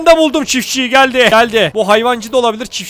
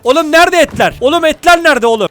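louder, higher exasperated telling-off; angry scolding; 5 semitones higher, 4 dB louder than usual. Real, not acted. Streamer scolding his idle hunters, angry and loud. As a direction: snap at lazy workers, raised voice.

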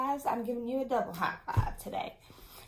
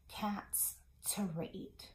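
hushed, slow whispered ending; 3 semitones lower, 9 dB quieter, much slower than usual. Shown as a demonstration. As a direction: let it fade to a whisper. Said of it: "storytelling whisper".

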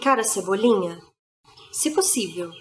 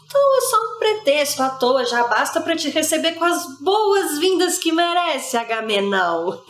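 indignant tragic tirade, starting high; bitter outburst; 4 semitones higher than usual. Acted. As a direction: lash out at the absent husband, raised voice. Bitter outburst at absent husband.

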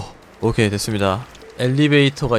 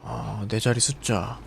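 usual speaking voice

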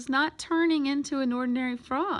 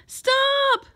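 loud, high shout to halt; urgent cry; 8 dB louder than usual. A narrator's reading. Boy to swim team heading for the pool, urgent cry. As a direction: shout it out to stop them. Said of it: "cried Luis".

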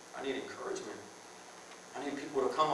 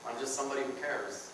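mock caring murmur; 9 dB quieter, faster than usual. Feigned concern.

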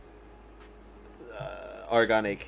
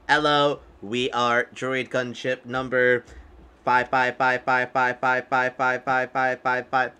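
droid voice. Pretend. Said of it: "voice issue".

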